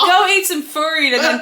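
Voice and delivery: playful Australian command; Australian accent. Pretend. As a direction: boss the pet in Australian, about to laugh. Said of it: "doing that accent".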